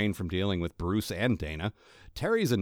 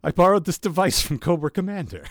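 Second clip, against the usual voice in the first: high, loud cartoon villain; theatrical clown-villain voice; Joker; 7 semitones higher, 7 dB louder than usual. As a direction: explain the scheme with showy relish. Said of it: "I'm the Joker".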